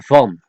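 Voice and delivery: van starting near F, final N sounded; N kept. Shown as a demonstration. Teacher warning learners, van keeping its N. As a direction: say van in Dutch, ending in N. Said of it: "you could not leave out".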